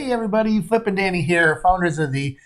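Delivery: winded, short of breath after walking; breathless from the walk over. Real, not acted. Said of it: "was out of breath already".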